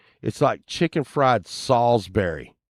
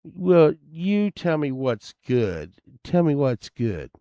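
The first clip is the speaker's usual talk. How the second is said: smart-ass; 5 semitones higher, 4 dB louder than usual. Retold or imitated. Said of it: "she gets all smart ass".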